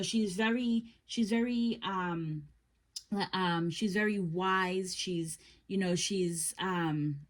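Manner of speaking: halting, repeating the words; stumbling over her words; stutter. Real, not acted. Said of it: "I'm stuttering when it comes to her".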